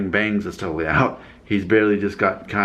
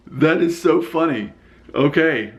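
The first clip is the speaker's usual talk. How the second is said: laughing; 6 semitones higher, slower than usual. Real, not acted.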